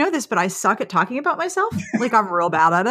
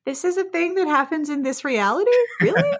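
mock disbelief; 6 semitones higher than usual. Mock disbelief at good news.

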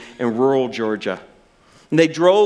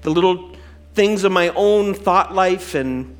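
closing prayer. Real, not acted. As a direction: pray from the heart before communion.

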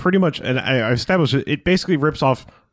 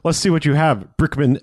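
higher-pitched mock Russian-Australian accent; imitated pseudo Russian-Australian accent; 6 semitones higher than usual. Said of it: "the way she said it".

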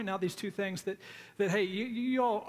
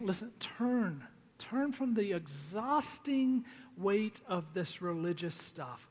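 gentle pleading; slower than usual. Retold or imitated. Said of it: "he's pleading with them".

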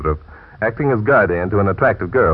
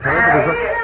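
sudden high shriek; scream. Acted. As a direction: scream cuts off the line. Sudden scream cuts him off.

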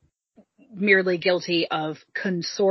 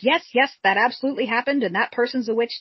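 higher-pitched, mock-eager yeses; desperate agreement; 5 semitones higher than usual. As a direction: imitate someone agreeing to anything to make it stop. Tortured woman agreeing to everything.

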